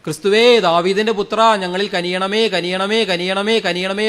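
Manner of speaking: lightly acted beggars begging for mercy; imitated crying out. Blind beggars pleading with Jesus, mildly imitated cry. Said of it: "ഉച്ചത്തിൽ നിലവിളിക്കുകയാണ്".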